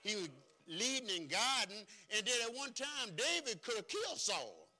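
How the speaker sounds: high, loud, driving sermon; preaching at full force. Acted. Preacher urging patience on the church, at full force. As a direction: lift the room with each phrase.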